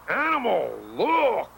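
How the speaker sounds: put-on high, happy toddler Animal; thrilled little wild child, up high; happily. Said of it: "he cried".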